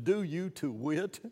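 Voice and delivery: slow, deliberate "Do you to wit"; old phrase read slowly. Shown as a demonstration. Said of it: "do you know that expression".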